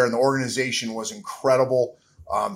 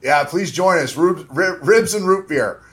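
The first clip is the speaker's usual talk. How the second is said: higher and louder, lifting with eager warmth; bright and eager; 4 semitones higher, 7 dB louder than usual. Real, not acted. Father inviting fans to celebrate his son's birthday, eager and raised. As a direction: invite everyone in with a swell of feeling.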